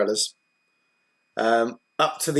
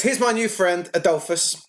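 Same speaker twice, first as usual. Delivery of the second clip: in-character introduction; 5 semitones higher than usual. Acted. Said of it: "she says".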